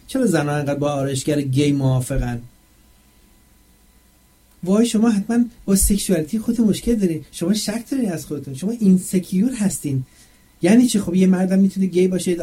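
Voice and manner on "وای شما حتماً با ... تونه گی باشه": high, mincing mock of women scolding him; sarcastic imitation of accusers; mocking shrill accuser. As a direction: parody their outraged tone, pitched up.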